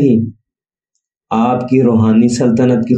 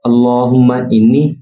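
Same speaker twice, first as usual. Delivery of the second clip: slow, measured Arabic recitation in short, separated phrases; durood recitation; slower than usual. Shown as a demonstration. Reciting the durood for listeners to learn its correct pronunciation, slow careful recitation. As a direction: recite slowly and carefully, pausing after each phrase. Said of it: "درود شریف سنیے".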